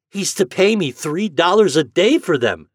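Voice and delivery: put-on boy telling his mother the price; proud farm boy. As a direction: lay out the deal proudly. Boy tells mother of deal.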